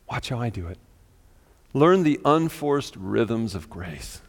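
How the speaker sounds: unhurried reading, long pauses between phrases; slow reading. Real, not acted. Preacher reads a paraphrase of Jesus' invitation, slowly. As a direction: read slowly, leaving space after each invitation. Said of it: "I'm gonna read it slow again".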